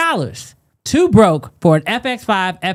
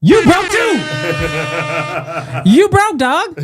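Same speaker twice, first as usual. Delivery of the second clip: mock roasting shout; 2 semitones higher, slower than usual. Roasting a cheap donor.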